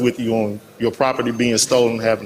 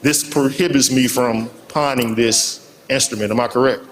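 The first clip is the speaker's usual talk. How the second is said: muffled. Real, not acted. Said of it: "your voice was a little muffled".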